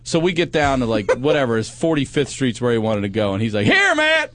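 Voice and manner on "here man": high, loud imitation of a passenger; acted-out yell from the back; retold calling out. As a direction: call out urgently to be let off. Hitchhiker calling to stop.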